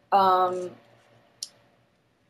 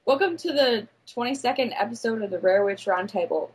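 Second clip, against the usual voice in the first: British-sounding. Real, not acted. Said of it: "I just sounded Eng-, like, British".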